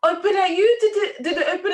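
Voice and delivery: put-on high, worried questions in a French accent. French dog owner asking the girl anxiously, French accent. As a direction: fret over the child in a French accent. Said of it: "in her French accent".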